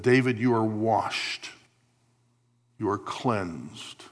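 slow, gentle, reassuring words of forgiveness; tender reassurance. Retold or imitated. God reassuring David he is forgiven, slow and tender. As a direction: slowly soothe a guilty man. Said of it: "God would say".

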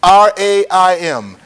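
slow letter-by-letter spelling; each letter given slowly and separately; spelled out. Shown as a demonstration. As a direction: spell it out slowly for note-takers. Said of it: "It is spelled".

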